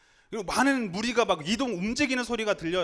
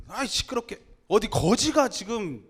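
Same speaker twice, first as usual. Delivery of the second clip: irritated crowd, slightly raised voice; scolding. Acted. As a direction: grumble at a noisy beggar. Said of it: "꾸짖었다고 이야기해요".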